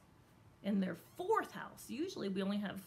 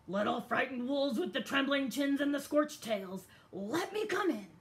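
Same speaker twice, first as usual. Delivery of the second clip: sly pig voice; 4 semitones higher, 5 dB louder than usual. Acted. Pig sweet-talking at the door.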